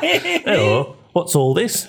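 laughing Brummie accent voice; Brummie voice changer. Shown as a demonstration. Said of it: "through the voice changer, I go".

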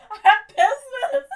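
high, loud, laughing dog voice; dog's voice. Retold or imitated. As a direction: voice the dog, squeaky and urgent. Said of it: "he was like".

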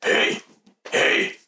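menacing whisper across the room. Acted. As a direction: hiss it like a dark secret. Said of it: "what Windar whispers to him".

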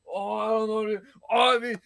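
put-on slurring drunk friend telling them to leave. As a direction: play the wasted buddy who gives up. Drunk friend voiced in story.

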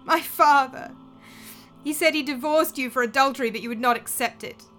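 accusing. Acted. Daughter accuses stepmother before crowd.

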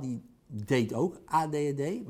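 emphasis on the verb "deed"; stress on "deed". Retold or imitated. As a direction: lean on the word "deed", not on A D H D. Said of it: "met nadruk op deed".

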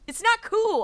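high, loud hit on "cool"; snappy stress on "cool". A narrator's reading. Olaf scolding a confused elder, stress on "cool". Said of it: "Olaf said with a snap".

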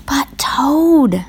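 high, pleading protest; plaintive Frog. A narrator's reading. Frog protests being left alone.

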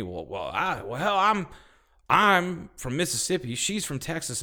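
hammed-up flustered man fumbling for words; mock drawling Terry. Retelling Terry's answer to the clerk, mock flustered drawl.

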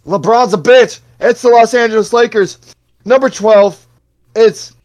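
loud, high hype-man countdown; hyped. Real, not acted. Host counting down rankings, loud and hyped. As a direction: pump it up like a sports announcer.

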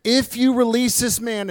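mild shout. Acted. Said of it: "the Jewish leaders shouted".

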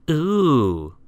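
high, drawn-out "ooh"; grinning delight. A narrator's reading. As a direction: coo with a grin at the idea. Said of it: "he grinned".

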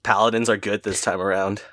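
grudging praise, a little low; understated, qualified compliment; backhanded compliment. Real, not acted. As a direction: offer faint praise with a catch. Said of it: "that sounded like the best backhanded compliment ever".

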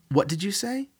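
alarmed disbelief; shocked. Acted. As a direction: react like the floor just dropped. Sophie shocked by news.

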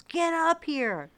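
high, drawn-out holler; imitated yell. Husband calling her upstairs from the house, yelling. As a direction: call it out loud like hollering upstairs. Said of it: "he yells".

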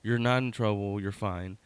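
a sigh, then calm him down gently; weary brother. Retold or imitated. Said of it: "my brother was like".

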